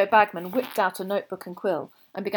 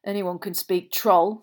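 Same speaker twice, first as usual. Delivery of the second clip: dismissive; 4 dB louder, slower than usual. Acted. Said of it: "said Fred dismissively".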